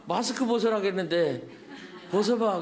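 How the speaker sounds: giggling playful demand; laughing. Retold or imitated. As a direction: laugh through the quote. (웃으며 장난스럽게)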